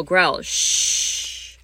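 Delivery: soft hushed shh. Shown as a demonstration. Teacher modelling the quiet ending of the sound pattern, hushed. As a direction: hush the class down. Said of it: "loud and soft".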